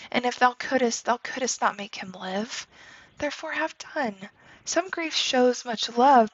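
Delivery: lightly acted Shakespeare reading, voicing Juliet and her mother; reading a play aloud. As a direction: read the scene for the class with a hint of each character. Teacher reads Shakespeare scene aloud.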